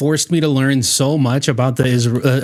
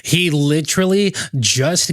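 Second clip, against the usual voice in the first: ordinary delivery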